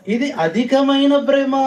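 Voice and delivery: excited exclaim. Real, not acted. Preacher exclaims about great love.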